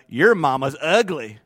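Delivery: a slow, lightly voiced child's jab; mock a kid teasing at daycare; daycare kid taunt. Child at daycare taunting about mama, lightly voiced. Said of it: "Somebody at daycare".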